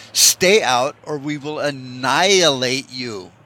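slow warning that leans hard on "annihilate"; stress on annihilate. Retold or imitated. Russia warning Ukraine to stay out, slow with "annihilate" stressed. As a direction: let "annihilate" land heavy and slow. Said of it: "Emphasis on the word annihilate".

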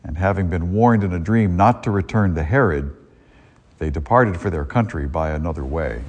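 solemn liturgical proclamation; Gospel reading. Acted. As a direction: read it like scripture at Mass.

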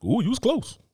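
high, laughing relief; laughing at sniff test. Pretend.

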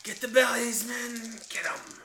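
high, loud goblin rallying call; mock battle cry. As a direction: urge the troops on, playing it up. Player voices goblins' battle order.

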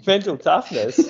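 high, slow amused echo; laughing disbelief. Real, not acted. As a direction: scoff at the idea. Scoffing at coaching suggestion.

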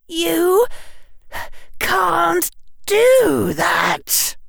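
put-on high, slow, choked-up boy. A narrator's reading. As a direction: force it out through a tight throat. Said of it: "His voice came out choked".

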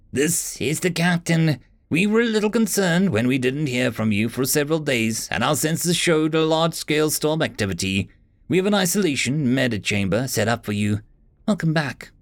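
calm authority on the comms; captain over speakers. Acted.

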